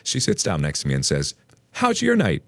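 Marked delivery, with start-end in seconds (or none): 1.7-2.4 very high-pitched tipsy question; mock-drunk mom, voice pitched way up; too loud, wasted. A narrator's reading. Ex's mom sitting down beside him, tipsy and high-pitched. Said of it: "in a way that's not only too loud".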